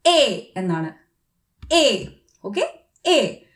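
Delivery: എ said as a clear eh; German letter name. Shown as a demonstration. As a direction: model എ for E. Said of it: "ഇ എന്നുള്ളത്". (German എ ഉച്ചാരണം)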